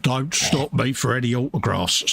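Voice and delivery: put-on lightly done Scouse accent; a hint of a Scouse impression of a musician. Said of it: "that was my Scouse Ringo accent".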